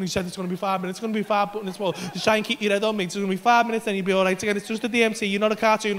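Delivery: contained self-reassurance after a freak-out; trying to stay calm. Retold or imitated. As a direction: talk yourself down from panic. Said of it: "I'm trying to stay calm".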